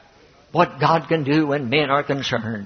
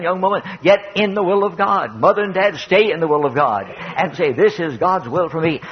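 emphatic pulpit appeal; preaching; 2 semitones higher than usual. Real, not acted. Preacher urging young and old toward God's will, preaching. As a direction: press each phrase home to the congregation.

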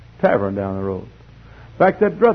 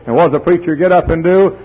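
raised-pitch pulpit question; louder preacher's lead-in; rising preaching; 5 semitones higher, 7 dB louder than usual. Real, not acted. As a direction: ask it loudly from the pulpit. Preaches at full force.

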